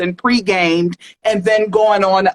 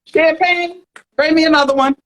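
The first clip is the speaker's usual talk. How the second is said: high, grand diva calling for champagne; pop-star diva; 8 semitones higher than usual. Pretend. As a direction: order the waiter like a star. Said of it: "you wanna be the singer or the rapper?".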